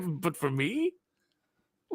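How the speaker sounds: laughing through a villain quote; taunting a troll, half laughing; mock villain line. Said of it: "I've used that on so many internet trolls".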